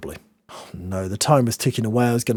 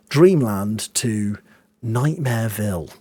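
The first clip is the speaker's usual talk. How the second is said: slow drawn out; 2 semitones lower, slower than usual. Real, not acted. Slow dramatic build.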